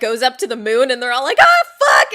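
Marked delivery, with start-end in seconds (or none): 1.4-2.1 high, loud cry of alarm; mock panicked shout. Passengers as the train goes up to the moon, mock panicked shout.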